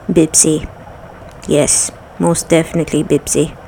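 "Bibsi" with a B, Arabic accent. Shown as a demonstration. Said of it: "I will just use my Arabic accent".

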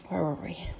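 whispering. Real, not acted. Whisper resuming reading.

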